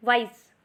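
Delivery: "wise" said as one unit; one syllable. Shown as a demonstration. Teacher shows learners a one-syllable word, said in one go. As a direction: say "wise" in a single go. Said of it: "एक ही बारी में मुंह से बोलना".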